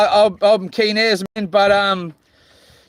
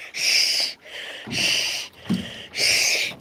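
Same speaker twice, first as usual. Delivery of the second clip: soft breathy hush; quiet shushing; whispered shush; 8 dB quieter, much slower than usual. Pretend. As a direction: hush yourself down. Shushing himself.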